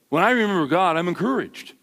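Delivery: the expected churchy line, "encouraged" said lightly and neatly; dutiful, by-the-book reply; pious stock answer. Shown as a demonstration. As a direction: recite the proper Sunday answer. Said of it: "That's what you're supposed to say".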